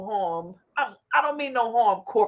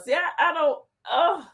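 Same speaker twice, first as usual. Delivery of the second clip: laughing till crying; 5 semitones higher than usual. Real, not acted. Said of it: "I'm laughing till I'm crying".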